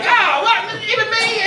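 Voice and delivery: high, loud fake astonishment; mock surprise. Reacting to a self-deprecating joke, mock surprise. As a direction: act amazed at being singled out.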